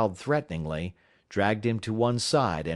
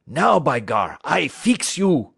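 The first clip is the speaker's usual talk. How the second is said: put-on loud, slowed, higher 'I fix you!' in a French-Canadian accent; angry French-Canadian threat; 7 semitones higher, 7 dB louder, slower than usual. Francois grabbing a club against Buck, angry French-Canadian threat. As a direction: threaten the defiant dog. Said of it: "Francois was angry".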